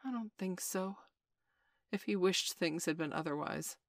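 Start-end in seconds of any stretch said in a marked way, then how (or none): 0.0-1.0 a touch of sorrow, softer; mournful. Acted. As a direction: say it with mild regret. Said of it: "who said mournfully".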